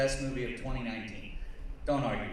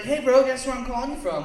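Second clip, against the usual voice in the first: excited friend; 9 semitones higher, 6 dB louder than usual. Retold or imitated. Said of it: "And he's like".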